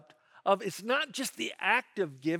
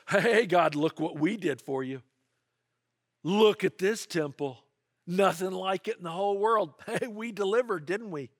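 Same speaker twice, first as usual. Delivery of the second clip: mock boastful; 4 dB louder than usual. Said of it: "kinda have that attitude".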